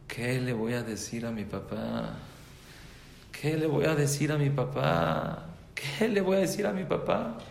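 mock wail, rising step by step; retold crying child. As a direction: imitate a distressed boy, climbing in pitch with each repeat. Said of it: "un niño estaba llorando".

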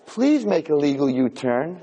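slow, lightly voiced satnav with a laugh; a hint of a calm navigation voice; polite GPS voice. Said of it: "Nice, feminine, with an English accent".

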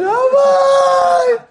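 high, loud excited shout; shouted call. Retold or imitated. Teddy shouting to the rabbi on the phone. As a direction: cry out his name. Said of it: "He said".

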